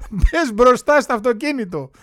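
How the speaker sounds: hammed-up slow yell; mock shout. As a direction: call out like a scheming mother-in-law. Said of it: "άκουσα την πεθερά να φωνάζει".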